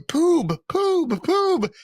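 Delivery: high, loud calling out "Poob"; excited fan yelling a name. Retold or imitated. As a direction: shout the nickname across the crowd. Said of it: "he's going".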